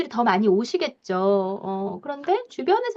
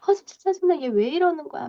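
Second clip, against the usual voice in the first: annoyed complaint; 4 semitones higher than usual. Retold or imitated. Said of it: "불만 가지고".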